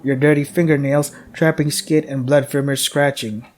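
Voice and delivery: steady, ominous game-text reading; horror narration. A narrator's reading. Streamer reading the horror game's story, ominous. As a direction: narrate the player's doom.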